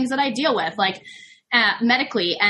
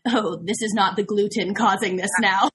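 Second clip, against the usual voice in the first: laughing. Real, not acted. Laughing at her own excuse.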